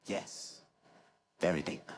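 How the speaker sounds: lightly deepened nasal techie voice; Maurice Moss. Acted. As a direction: drop into a slightly deep nerd voice. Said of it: "it can be quite deep, can't it?".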